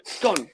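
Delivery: SCONE with a short o, a falling punchline; "scone" with the short vowel of "on"; scone rhyming with gone. Shown as a demonstration. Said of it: "Because it's the fastest cake in the world".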